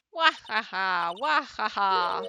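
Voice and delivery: loud, slow spelt-out guffaw; hammed-up character laugh. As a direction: belt out a fake, deliberate laugh. Acts witness's written-out laugh.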